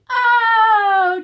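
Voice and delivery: very high, loud gasp of surprise. Shown as a demonstration. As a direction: gasp it like the whole crowd is shocked. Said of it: "Do it with me".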